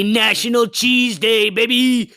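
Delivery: hyped-up cheering shout; excited shout. Real, not acted. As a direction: yell it like a party cheer. Hyping National Cheese Day.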